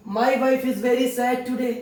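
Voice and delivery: very slow, word by word; slow demo. Shown as a demonstration. Teacher to Hindi students, drawn out very slowly. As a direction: spell the sentence out slowly for learners. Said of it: "मैंने बोला".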